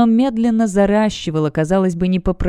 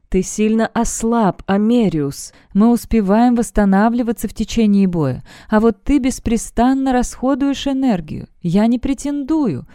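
gently voiced elf woman declining her share; lightly voiced Helin; 4 semitones higher than usual. (мягко озвученная героиня, чуть выше и медленнее)

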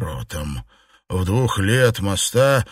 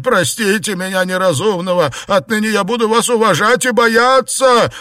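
wailing plea; 10 semitones higher, 5 dB louder than usual. Acted. Xuepan begs under blows.

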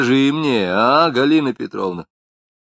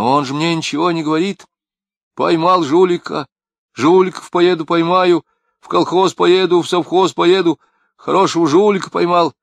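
higher, louder woman's complaint; wife's voice; 8 semitones higher, 7 dB louder than usual. A narrator's reading. Wife complains to Lapshin about her husband, high and loud.

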